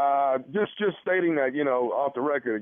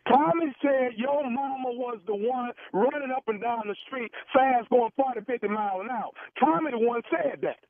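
disguised gossiping caller; 7 semitones higher than usual. Pretend.

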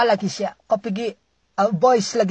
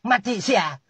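mock cry for help; 3 semitones lower, slower than usual. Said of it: "Sanalah kamu teriak-teriak".

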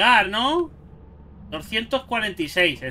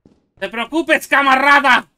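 Russian soldier; 4 semitones higher, 6 dB louder than usual. Pretend. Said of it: "así es como lo hacemos en la madre Rusia".

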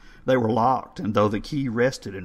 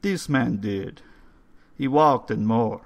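put-on higher, louder old foreign voice; old man telling a dark tale; 4 semitones higher, 6 dB louder than usual. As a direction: recount the night with dread.

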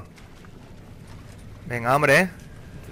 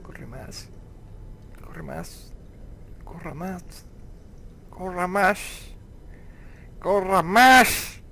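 building urging; 3 semitones higher, much slower than usual. Real, not acted. Urging repeatedly, growing louder.

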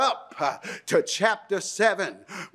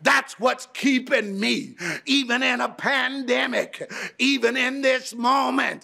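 preacher building to a shouted climax; rousing preaching; 2 semitones higher than usual. Acted. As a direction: lift the church, swelling each repeated line.

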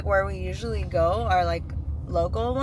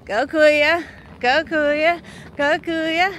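raised, rhythmic cheer; 6 semitones higher, much slower than usual. Real, not acted. Cheering Kuya up the hill, encouraging. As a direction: urge them up in a higher voice.

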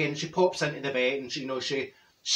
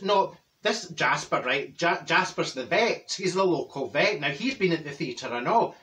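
Dorothy's voice. Retold or imitated. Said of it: "if I do it in Dorothy's voice".

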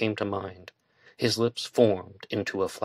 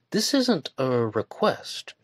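firmly; 5 semitones higher, much slower than usual. A narrator's reading. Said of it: "Barry spoke even more firmly".

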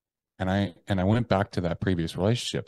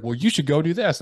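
mentor voice; 9 semitones higher, 4 dB louder than usual. Retold or imitated. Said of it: "And he was like".

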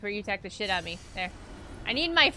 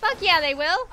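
louder, higher, emphatic; excited yell; 6 semitones higher, 6 dB louder than usual. Real, not acted. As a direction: shout it with conviction. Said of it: "repeated louder".

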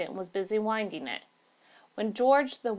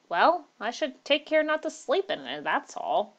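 curt retort with a raised opening; short, curt; 6 semitones higher than usual. A narrator's reading. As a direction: say it shortly, dropping off at the end. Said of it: "said the voice shortly".

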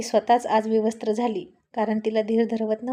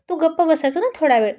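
raised, sharper and higher, telling her to hush; irritated husband; 5 semitones higher, 4 dB louder than usual. Acted. Husband cutting off his wife mid-quarrel, raised irritated voice.

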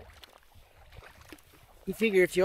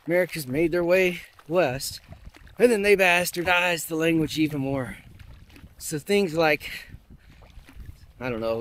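ordinary delivery

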